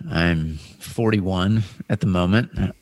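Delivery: slow, dramatic trailer announcer; movie trailer voice. Pretend. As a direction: read it like a film trailer. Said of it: "I went into movie trailer voice".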